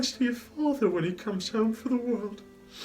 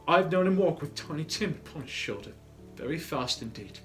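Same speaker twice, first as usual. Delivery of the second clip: high, loud, flowing recollection; steady cheerful voice; 8 semitones higher, 8 dB louder than usual. Acted. Mother recalls Tiny Tim carried, steady and cheerful. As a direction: recover and carry it through cheerfully. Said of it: "and in a steady, cheerful voice".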